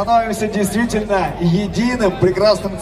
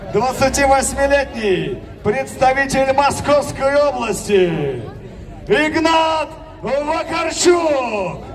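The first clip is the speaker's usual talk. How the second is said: boxing announcer. Acted. Fighter introduction, drawn-out name. (объявление бойца на ринге)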